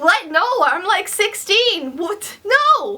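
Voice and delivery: high incredulous squeak; a teen stunned by a marriage proposal; shocked disbelief. Retold or imitated. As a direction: sputter it out in total disbelief. Reacting to marriage talk.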